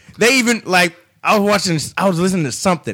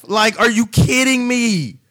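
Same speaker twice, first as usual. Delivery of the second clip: incredulous; 3 semitones higher than usual. Real, not acted. Disbelief at standings.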